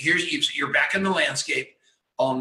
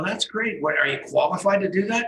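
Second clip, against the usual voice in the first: higher-pitched retold question; impressed, probing; 6 semitones higher than usual. Host retelling how he quizzed a stranger about his startup, impressed and probing. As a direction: quote yourself quizzing someone, pitch lifted.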